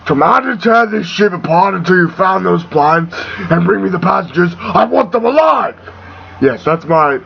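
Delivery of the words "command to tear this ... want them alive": lightly voiced villain giving orders; commanding, rising on the last order; a rough stab at a dark lord's command; Darth Vader. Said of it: "eh, Vader impression".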